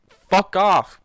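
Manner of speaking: loud high yell at the character; furious outburst at a story villain; angry shout. Real, not acted. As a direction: tell her off at full volume. Angry yelling at character Swarm.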